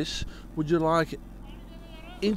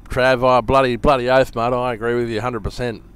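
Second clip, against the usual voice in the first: put-on Australian accent; 3 semitones lower, 6 dB louder than usual. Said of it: "Switch to native Australian".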